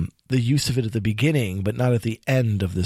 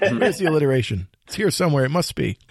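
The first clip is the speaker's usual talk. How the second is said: playful, higher mock-puzzled voice; mock searching; 5 semitones higher than usual. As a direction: tease yourself, pretending to hunt for it.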